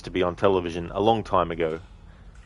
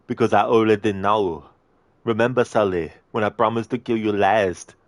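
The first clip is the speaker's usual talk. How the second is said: Arnie impression. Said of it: "Arnie movie scene impression".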